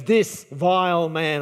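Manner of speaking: slow, drawn-out mock-dramatic denouncing; dramatic accusation. Esther accusing Haman before the king, with mock drama. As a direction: play up the accusation, stretching each word. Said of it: "I'm sure with drama she goes".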